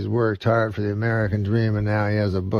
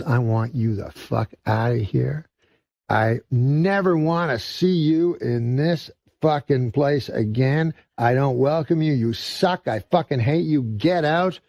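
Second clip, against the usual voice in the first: higher, slower, furious shopkeeper; outrage boiling over; 5 semitones higher than usual. Retold or imitated. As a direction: let a lifetime of anger spill out. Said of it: "outrage ... boils over".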